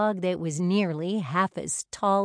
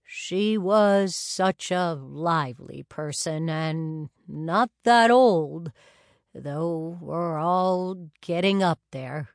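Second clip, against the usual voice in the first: put-on sorrowful older man; 4 dB louder, slower than usual. Wilfred's voice in narration.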